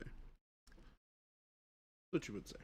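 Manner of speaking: drawn out, breathy whisper; slow whispered jab. Acted. Slowly whispering a jab back at Chris.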